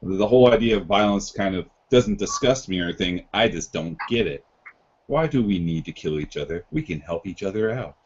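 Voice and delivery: flat robotic monotone. Pretend. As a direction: speak without any inflection. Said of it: "Monotone voice, best I can".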